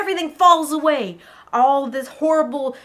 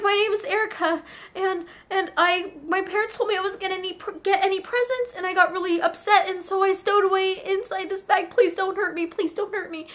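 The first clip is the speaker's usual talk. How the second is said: higher, anxious babble; frightened pleading; 4 semitones higher than usual. Acted. Girl explaining herself to the orcs, frightened. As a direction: plead in mild acted fear.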